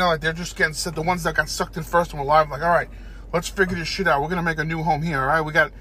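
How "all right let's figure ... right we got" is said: rallying ant. Acted. Surviving ant rallying the others.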